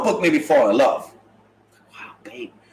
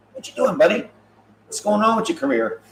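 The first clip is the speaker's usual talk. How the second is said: mock fans; 4 semitones higher than usual. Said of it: "they're like".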